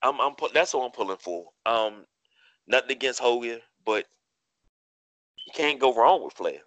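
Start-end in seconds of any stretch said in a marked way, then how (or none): 5.5-6.6 parched, hoarse voice; rough throat from yelling. Real, not acted. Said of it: "my voice is a little low".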